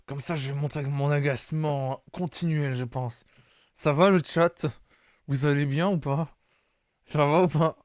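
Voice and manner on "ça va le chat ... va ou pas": spoken through gritted teeth, annoyed. Pretend. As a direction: clench the jaw and grumble. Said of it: "je vais jouer toutes mes répliques avec les dents serrées".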